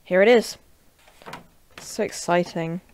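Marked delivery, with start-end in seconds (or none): 1.8-2.8 excited words in an everyday voice; unexcited delivery. Real, not acted. Unboxer insisting the new mouse is exciting, sounding unexcited. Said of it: "I don't sound excited".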